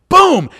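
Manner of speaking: loud punch boom. Retold or imitated. Punch sound in fight story.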